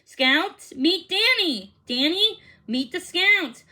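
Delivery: host making introductions to the group; announcing introductions. Acted. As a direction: present them to each other with a flourish. Mr Baker introducing everyone.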